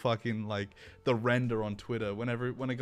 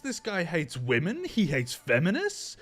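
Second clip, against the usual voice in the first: higher, worked-up complaint with rising ends; mock outraged appeal; 5 semitones higher, 3 dB louder than usual. Streamer mimicking a call to a sponsor, mock outrage. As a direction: act out an indignant tattletale.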